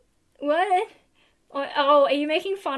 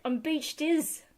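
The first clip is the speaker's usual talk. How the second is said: put-on New Zealand accent; 4 semitones higher, slower than usual. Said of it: "a New Zealand accent".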